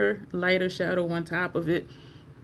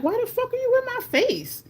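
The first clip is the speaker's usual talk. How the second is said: high-pitched incredulous demand; acted-out shocked protest, pitched way up; startled indignation. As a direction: retell it in a high, startled squeal at normal volume. Startled, confronting woman near her face.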